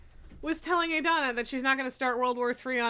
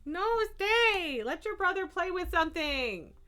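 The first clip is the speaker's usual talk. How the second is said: high calling out; 8 semitones higher than usual. Real, not acted. Calling after the cat.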